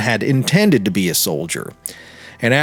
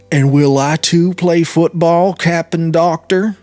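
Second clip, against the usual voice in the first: the major's voice; 6 semitones higher, 4 dB louder than usual. Acted. The major asks the doctor.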